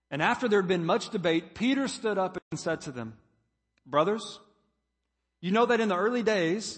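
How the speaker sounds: loud, declaimed Bible reading; scripture reading. Acted. Preacher reads Peter's speech to the congregation, loud scripture reading. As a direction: read it out firmly to the whole room.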